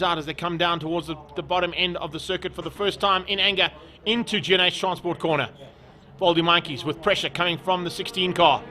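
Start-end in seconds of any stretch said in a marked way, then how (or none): 3.3-8.6 animated motorsport play-by-play; keen trackside race call; live race commentary. Real, not acted. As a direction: call the battle with punchy, raised energy.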